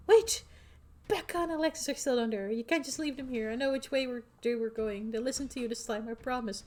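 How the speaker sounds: put-on high, urgent girl voice; pleading teen girl. Rosalina begging the group to save her friends, urgent. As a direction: beg them not to leave.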